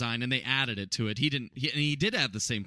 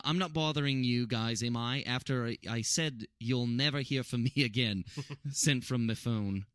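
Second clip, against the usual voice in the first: amateur British accent, reading a message aloud; terrible British accent. Shown as a demonstration. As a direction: read on in a badly done British accent. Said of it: "I have a terrible British accent".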